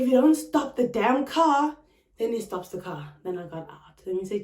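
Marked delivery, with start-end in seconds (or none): 0.0-1.8 higher, slow American-style threat; mock American ultimatum; American reality-TV accent. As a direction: put on an American reality-show diva. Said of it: "you know Americans".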